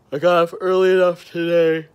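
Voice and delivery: sudden high, loud outburst; loud burst. Acted. Sudden loud burst mid-ramble.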